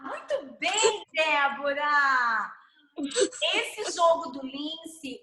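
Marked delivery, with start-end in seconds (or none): 0.0-2.5 loud, drawn-out cheer for a winner. Real, not acted. Teacher cheers Débora's point in the game, excited. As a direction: celebrate loudly, stretching the name. Cheering a player's correct answer.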